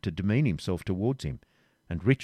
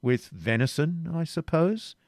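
gaily; 7 semitones higher, slower than usual. A narrator's reading. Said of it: "said Richard gaily".

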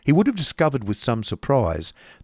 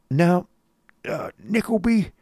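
high-pitched hesitant summons; coarse schoolmaster; 9 semitones higher than usual. Acted. Schoolmaster summoning his assistant, coarse.

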